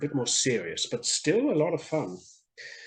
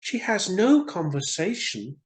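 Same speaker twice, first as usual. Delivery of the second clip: a bit higher bored swallow; lightly voiced tired bird; swallow complains; 6 semitones higher than usual. Swallow tiring of the reed, mildly bored. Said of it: "he said".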